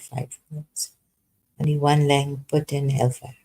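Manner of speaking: ordinary delivery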